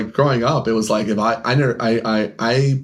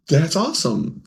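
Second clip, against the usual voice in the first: higher, mildly delighted praise; put-on enthusiasm; 6 semitones higher than usual. Store owner praising a customer's pull, mock delight. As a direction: act pleased for him, pitched up.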